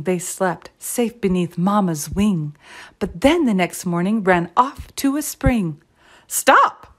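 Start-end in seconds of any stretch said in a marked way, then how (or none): 6.3-6.9 high, loud cry to halt; alarmed cry. A narrator's reading. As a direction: call out to stop runaway chicks. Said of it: "cried their papa".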